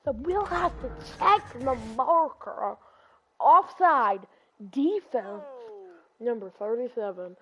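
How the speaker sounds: slow mock referee call; referee announcement. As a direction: announce the penalty like a ref.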